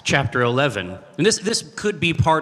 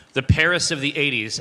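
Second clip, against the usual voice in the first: ordinary talk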